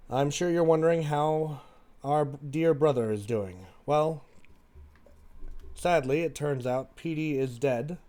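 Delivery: measured letter reading with pauses; reading letter aloud. Acted. Sister's letter to her jailed sibling, read aloud.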